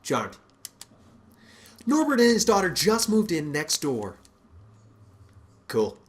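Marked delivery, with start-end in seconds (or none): 0.0-0.4 low gruff drawl. Acted. Robert's low gruff reply. 5.7-6.0 low gruff grunt. Acted. Robert's low gruff reply.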